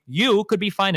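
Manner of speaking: emphasis landing on "you"; stress on YOU. Real, not acted. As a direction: lean on the word "you". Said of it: "Don't emphasize you".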